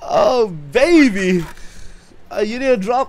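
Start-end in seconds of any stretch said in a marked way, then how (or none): 0.1-1.4 drawn out high celebration; slow gloating. Real, not acted. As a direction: savour the win, slowly. Celebrating a kill.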